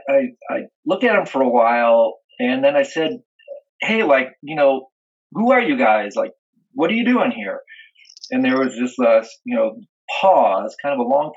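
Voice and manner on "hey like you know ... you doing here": higher-pitched casual query; retold challenge. Dreamer asks bar characters who they are, casually questioning. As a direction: sound out some strangers, casually puzzled.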